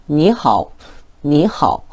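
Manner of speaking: 니하오 with 하오 almost neutral tone; 가볍게 읽는 니하오; light casual greeting. Shown as a demonstration. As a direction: toss off 니하오 lightly, 하오 unstressed. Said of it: "굉장히 가볍게 읽는 경우가 많다".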